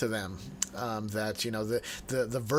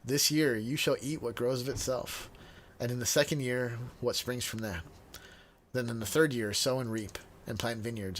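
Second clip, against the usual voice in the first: measured, solemn Bible reading; formal reading of an Old Testament prophecy; scripture reading; 3 dB quieter than usual. Acted. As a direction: read the passage aloud to the group, unhurried. Reading scripture passage aloud.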